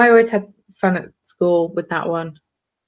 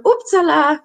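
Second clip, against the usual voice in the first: higher, louder "Uppsala!"; mock oops; 8 semitones higher, 4 dB louder, slower than usual. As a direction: blurt it like dropping something. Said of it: "you go".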